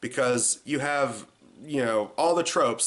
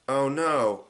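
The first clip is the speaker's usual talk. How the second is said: bad acting; slower than usual. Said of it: "Like, no emotion whatsoever".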